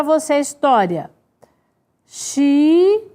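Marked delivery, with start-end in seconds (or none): 2.0-3.1 "Xiita" split into slow, drawn-out syllables. Shown as a demonstration. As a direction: say "Xiita" one syllable at a time with long gaps. Writing the word syllable by syllable.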